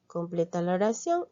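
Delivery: reads the instruction in a whisper. Real, not acted. Teacher whispering the worksheet task to herself. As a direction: breathes the task line to herself.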